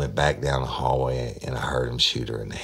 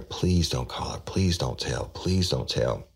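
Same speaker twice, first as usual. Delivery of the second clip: begging. Retold or imitated. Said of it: "I was begging her".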